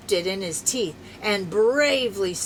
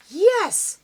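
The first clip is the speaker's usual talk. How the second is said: a lightly barked, much higher yes; 12 semitones higher, 7 dB louder than usual. Acted. Dog answers Mister Dobson with a light bark. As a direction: yip it like a dog. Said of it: "barked Spunky".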